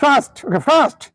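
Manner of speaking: British-style ফাস্ট; British accent. Shown as a demonstration. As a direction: echo ফাস্ট as the British model. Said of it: "British কি বলে?". (British ধাঁচে ফাস্ট)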